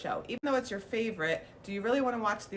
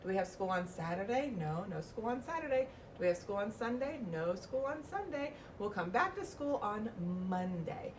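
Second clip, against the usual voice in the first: teacher questioning; 3 dB quieter than usual. Shown as a demonstration. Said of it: "I'll say".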